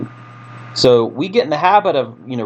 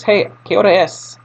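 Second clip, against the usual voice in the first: friendly asker; 8 semitones higher than usual. Retold or imitated. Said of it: "someone asks".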